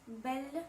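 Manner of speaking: "Belle" with a light, released French L; French pronunciation. Shown as a demonstration. Teacher contrasting the letter L in Belle, French pronunciation. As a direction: say "Belle" as a French word, L clearly sounded. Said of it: "français".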